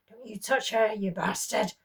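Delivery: loud, desperate protective yell; a mother screams at her husband to spare her daughter; screaming at him. Acted. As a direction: scream to protect your child. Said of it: "she screamed at him".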